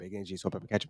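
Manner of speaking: breakneck murmured rundown, very soft, very fast. Demonstrating how a quick order is said, as fast as possible. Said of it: "you could say as fast as possible".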